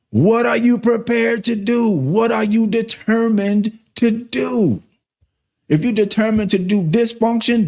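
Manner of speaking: preaching at full force. Acted. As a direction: hammer the question home. Preacher presses the same challenge.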